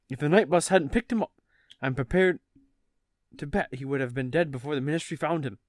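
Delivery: mildly put-on British reading; British accent. Reading Mr Weasley warning his wife, light British accent. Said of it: "Gotta get into British character".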